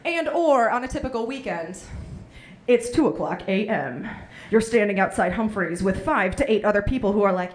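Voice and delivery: dramatic announcer send-up; movie trailer voice. Acted. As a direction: set the scene like a trailer voice-over. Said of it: "your life should be a movie trailer".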